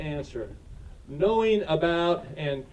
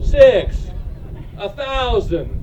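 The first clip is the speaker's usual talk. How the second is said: auctioneer; 6 semitones higher, 5 dB louder, slower than usual. Real, not acted. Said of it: "I feel like an auctioneer".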